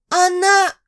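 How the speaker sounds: high, loud sobbing cry. Acted. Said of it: "всхлипывала Зайка".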